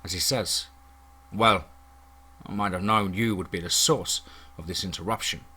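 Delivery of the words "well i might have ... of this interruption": stony disapproval. A narrator's reading. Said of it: "His face quickly returns to stone".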